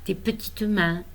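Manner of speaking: tender recital with pauses after each image; lyrical, measured verse reading; poem reading. Acted. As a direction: read your love poem to a little grandchild.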